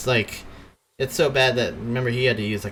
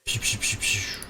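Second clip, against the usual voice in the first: quick run of hushed "psh" noises; imitated missile sounds; 5 dB quieter than usual. Game master sounds out magic missiles, imitated whooshes. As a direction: puff out little missile whooshes.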